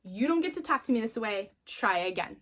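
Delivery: hammed-up outraged mom; mock shocking. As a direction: lay it on thick to startle a daughter. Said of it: "Sometimes I shock her".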